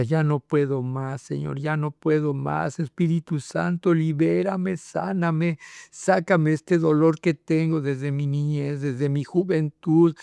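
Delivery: slow, pleading retelling of an anguished prayer; retold cry of pain. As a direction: plead slowly, reliving the pain without really shouting. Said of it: "salía todo ese dolor y gritaba". (súplica dolida y lenta, sin llegar al grito)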